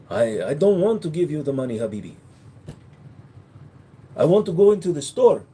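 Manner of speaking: put-on Arab accent, haggling. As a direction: protest in a mock Arab accent. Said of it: "I was a little bit more Arab".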